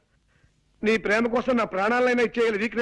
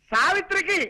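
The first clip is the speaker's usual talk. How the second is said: higher, exaggerated big news delivery; hammed-up excited; 4 semitones higher than usual. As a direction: overact the news for a deaf mother-in-law. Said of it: "ఇలా కాళ్ళు చేతులు ఊపుతూ హైరాణ పడాలా". (ఉత్సాహంగా హడావిడి)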